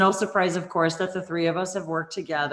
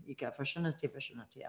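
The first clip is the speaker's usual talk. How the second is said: soft light language; 4 semitones lower, 12 dB quieter, much faster than usual. Acted.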